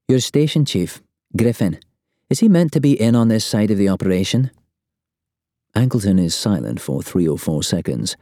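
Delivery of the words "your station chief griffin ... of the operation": lightly voiced urgent woman agent, higher; a hint of an agent demanding answers; tense agent on the phone. A narrator's reading. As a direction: press the question, a little higher in pitch.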